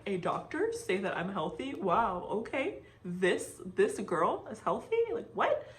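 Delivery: rising, incredulous replay of the moment; disbelief. Retold or imitated. Retelling her reaction to the doctor, amazed disbelief. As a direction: question it like you can't believe your ears. Stunned at being told healthy.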